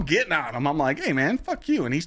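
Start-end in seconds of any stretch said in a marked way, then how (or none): 1.0-1.8 playful fury, pitched high; mock trash talk. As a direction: fire it back at him.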